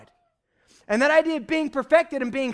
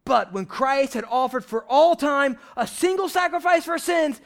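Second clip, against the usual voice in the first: preaching it. Shown as a demonstration. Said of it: "He's preaching it".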